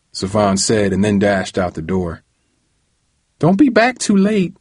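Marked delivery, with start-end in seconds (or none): 3.4-4.5 hollering. A narrator's reading. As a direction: holler it out the door, much higher. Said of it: "Aunt Lorraine hollered".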